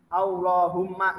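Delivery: slow, careful dictation; dictating. Shown as a demonstration. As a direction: read it out slowly for writing. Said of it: "seperti yang Kakak tulis ini".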